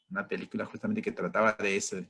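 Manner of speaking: ordinary talk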